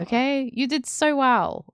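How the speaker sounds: tender praise. Real, not acted. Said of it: "praising friend".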